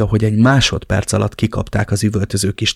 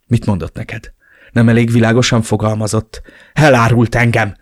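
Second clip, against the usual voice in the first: through gritted teeth; 4 dB louder than usual. Acted. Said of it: "szűrtem ki a fogaim közt".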